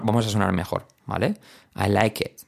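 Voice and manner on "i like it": "I like it" with IT as 'et'; plain-spoken 'I like et'; E vowel in IT; short i as E. Shown as a demonstration. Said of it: "hacer una E".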